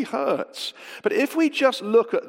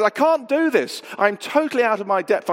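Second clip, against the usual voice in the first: higher-pitched, mildly panicked protest; retold panic; 3 semitones higher, 4 dB louder than usual. Novice sailor to his friend in the leaning boat, mock panic. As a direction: act out panic, pitch jumping up then tumbling on. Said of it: "And I panicked".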